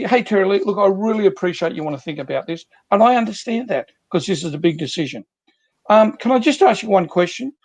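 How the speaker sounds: empathetic. Shown as a demonstration. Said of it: "that first bit was the empathy".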